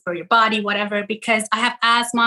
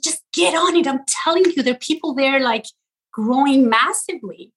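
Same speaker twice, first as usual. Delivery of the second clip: imitating an exasperated brother, raised pitch easing off; retold mild yell; 2 semitones higher than usual. Brother pushing her to join TikTok, mild mock yell. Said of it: "he just yelled at me".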